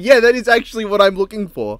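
giggling through the line; laughing mock reply. Jake admitting it to Danny, a laughing mock reply. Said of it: "He's just like".

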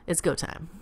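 hushed whisper, sneaking out. Acted. May whispers to herself before sneaking out. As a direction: whisper it like a secret mission.

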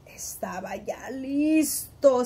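hushed suspense whisper. Acted. Storyteller telling children the furnace is ready, whispered. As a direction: breathe it like a secret.

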